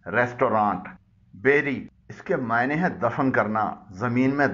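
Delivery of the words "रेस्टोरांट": रेस्टोरेंट as "res-to-raant"; correct pronunciation. Shown as a demonstration. Teacher modelling for learners, रेस्टोरेंट ending "raant". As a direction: say रेस्टोरेंट with long aa in the last syllable. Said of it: "इसकी दुरुस्त pronunciation है".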